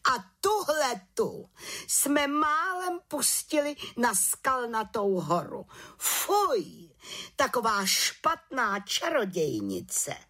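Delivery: head witch shocked and outraged; indignant outcry. A narrator's reading. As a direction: recoil in disgust at the girl. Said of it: "pohoršeně vykřikla".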